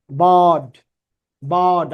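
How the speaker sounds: বার্ড said the English way; English bird. Shown as a demonstration. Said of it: "আমরা বলি বার্ড". (ইংরেজি উচ্চারণে বার্ড)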